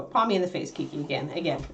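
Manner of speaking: soft laughing scold. Real, not acted. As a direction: chuckle through the words at the dog. Dog paws her face.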